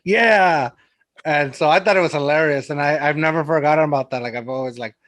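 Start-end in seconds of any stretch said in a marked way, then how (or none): 0.0-0.7 "Yeah" settling back down; mildly relieved, drawn-out agreement; brought-back-down yeah. Retold or imitated. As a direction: say "Yeah" like coming down from a shock. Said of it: "brought it back down to".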